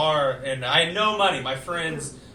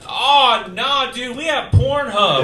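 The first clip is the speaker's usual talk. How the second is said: mock scolding; 6 semitones higher, 11 dB louder than usual. Scolding the friend, loud and laughing.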